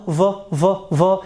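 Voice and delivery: V with the voice switched on; short, buzzing V repeated as a demonstration; voiced V. Shown as a demonstration. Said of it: "if we go for the v sound".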